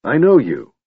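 a stranger crying out in recognition; cried out. A narrator's reading. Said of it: "the man cried".

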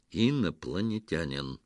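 a mildly sterner repeat. Acted. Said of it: "повторил Петро ещё суровее".

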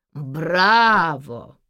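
low, loud mocking man's voice; a sneering bravo from behind; mocking male bravo. A narrator's reading. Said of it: "насмешливый мужской голос". (насмешливый мужской голос)

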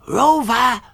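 high-pitched call like a dog whistle; high creature call. A narrator's reading. Gigglerin summoning the dog next door, high call. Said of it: "Er hörte die Gigglerin rufen".

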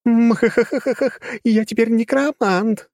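high, slow evil cackle; villain laugh. Acted. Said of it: "рассмеялась Кира".

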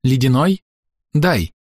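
high, insistent grab; mother demanding the child, lightly voiced. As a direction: demand the baby with a rising "Ледяной?". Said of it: "сказал кто-то требовательно".

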